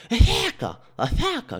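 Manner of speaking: high toothless yell, consonants lost; mushy, gummy shriek of a toothless woman; toothless woman bellowing. Retold or imitated. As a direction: holler it with no teeth in your mouth. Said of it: "Assim, sem dentes".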